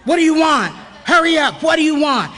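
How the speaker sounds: a mock impatient drive-through worker. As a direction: bark the order at her, hurry up. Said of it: "some guy starts just out of the blue going".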